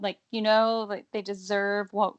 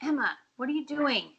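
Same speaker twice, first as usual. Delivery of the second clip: high, swooping call away from the mic; high-pitched aside with swooping tune; 6 semitones higher than usual. Real, not acted. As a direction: call over to someone in a high, sing-song questioning voice. Breaks off to call to Emma.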